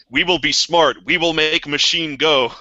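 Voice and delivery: halting, simplified survivor speech; mock primitive speech. Joking about linguistic decay, mock primitive speech. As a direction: lightly play a speaker of shrunken language. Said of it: "language might get shrunken down".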